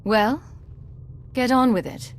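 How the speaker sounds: impatient, frustrated prod. Acted. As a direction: hurry them along, fed up. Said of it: "Impatience. Frustration".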